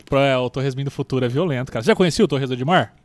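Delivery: talking with mouth full; chewing torresmo while talking. Real, not acted. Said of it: "Falando de boca cheia".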